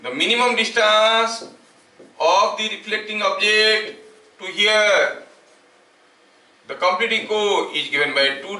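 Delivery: slow, deliberate dictation pace for note-taking. Acted. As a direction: read each word out slowly so students can write it down. Dictating the formula slowly. (धीरे-धीरे लिखवाने वाला अंदाज़)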